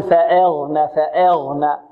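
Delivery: فأغنى with the hamza's vowel tilted toward "e"; over-thin the hamza in فأغنى into an "eh". Shown as a demonstration. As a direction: say فأغنى as "fa-eghna". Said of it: "البعض يريد أن يرقق الهمزة فماذا؟".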